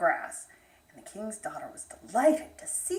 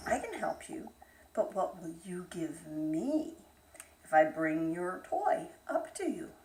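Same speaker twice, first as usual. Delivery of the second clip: sly frog; 4 semitones lower than usual. Acted. Frog bargains softly.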